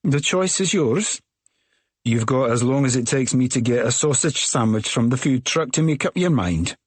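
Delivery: high and slow, final offer; high, slow Scottish woman. A narrator's reading. Ferry woman giving the narrator an ultimatum, high and slow. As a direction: drawl the ultimatum in a high lilt. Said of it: "she says".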